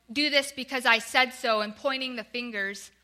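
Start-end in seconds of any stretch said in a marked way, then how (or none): 0.1-1.6 mildly stern, louder command; mock harsh tone, a touch forceful; harsh scolding. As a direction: lay down the law a little harder. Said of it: "in this harsh tone".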